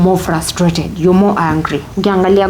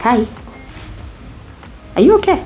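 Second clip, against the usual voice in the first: concerned colleague; 6 semitones higher, 3 dB quieter, faster than usual. Retold or imitated. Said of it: "She was like".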